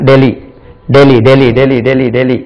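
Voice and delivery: "டெல்லி" as "Deh-lee", no h; English pronunciation of Delhi. Shown as a demonstration. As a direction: drill "டெல்லி" with a silent h. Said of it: "English உச்சரிப்பு என்ன?".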